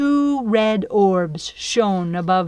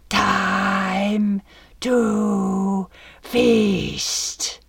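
dragon voice; much slower than usual. Acted. Dragon declaring intent.

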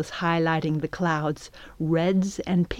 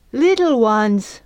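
slow, higher and louder indignant echo; offended at being called little; protesting; 5 semitones higher, 5 dB louder, slower than usual. Acted. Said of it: "Flam protested".

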